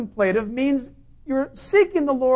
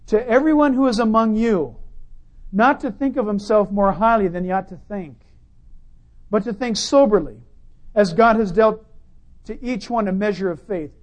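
scripture reading; 3 dB louder than usual. Acted. Reads scripture aloud.

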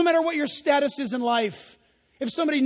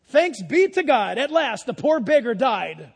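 slow, emphatic, louder quotation; relished repeat; 5 dB louder than usual. Retold or imitated. Preacher repeats a commentator's line he likes, slow relish. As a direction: savour the line, slowly and firmly. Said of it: "I kinda like that".

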